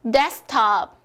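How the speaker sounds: "데스크탑" as des-top, K left out; dropped K. Shown as a demonstration. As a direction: model "데스크탑" without its middle K. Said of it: "생략시킨다". ("데스크탑"에서 크를 빼고 데스탑)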